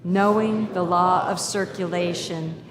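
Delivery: slow, measured prayer read aloud; group prayer. Acted. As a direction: lead the room through the prayer calmly, slowly. Leads the congregation in prayer.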